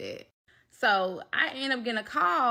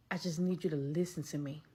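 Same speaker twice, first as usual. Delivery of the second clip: calming; 4 semitones lower, 7 dB quieter, faster than usual. Retold or imitated. Voices friend calming her down.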